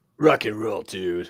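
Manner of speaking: very slow, low, gruff, drawn-out eighties rock tone. Trying out the voice another speaker asked for: gruff Monty voice. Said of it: "rock, like, eighties sort of, sort of tone there".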